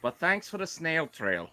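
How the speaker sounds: a hint of an Irish accent. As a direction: read it in a light Irish accent. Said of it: "Do your Irish accent".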